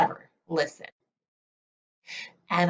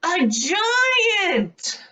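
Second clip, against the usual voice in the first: frightened cry; 11 semitones higher than usual. A narrator's reading. Seed recalls the giant that grabbed him, fearful cry. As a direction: gasp out the giant in terror. Seed's terrifying memory.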